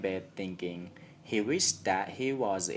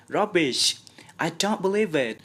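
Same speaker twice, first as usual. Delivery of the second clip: higher, loud quick scoff; 10 semitones higher, 6 dB louder than usual. A narrator's reading. Aunt Polly scoffing at Sid's alarm. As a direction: brush it off briskly.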